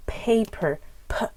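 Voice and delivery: paper with an aspirated first p; paper, then a breathy popped "p"; puff of air. Shown as a demonstration. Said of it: "an extra puff of air".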